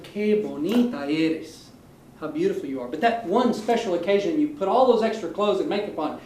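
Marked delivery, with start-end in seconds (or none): 0.0-1.6 everyday compliment. Acted. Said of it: "normally you say to your girlfriend".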